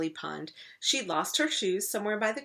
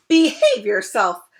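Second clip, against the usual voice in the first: high, loud, slow plea; king pleading with the crocodile; cried out; 13 semitones higher, 12 dB louder than usual. Acted. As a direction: cry out for order. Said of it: "cried the king".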